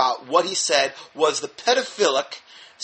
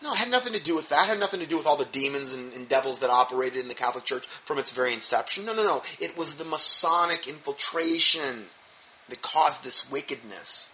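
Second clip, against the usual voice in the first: sarcastic; 5 dB quieter than usual. Pretend. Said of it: "Rather sarcastically".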